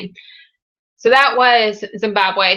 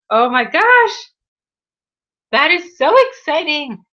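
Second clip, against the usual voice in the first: higher, bubbly delight; excited; 7 semitones higher, 3 dB louder than usual. Real, not acted. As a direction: cheer her on with real joy. Cheering viewer's loan payoff again.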